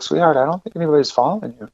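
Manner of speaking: calm a scared stranger gently; soft reassurance. Retold or imitated. Coffee shop girl soothing a panicked stranger, soft and kind.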